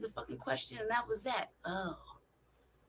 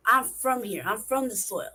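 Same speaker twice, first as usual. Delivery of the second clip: loud, forceful insistence; emphatic declaration; 8 dB louder than usual. Real, not acted. Telling listeners where he is from, loud and emphatic. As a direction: punch out the claim of belonging.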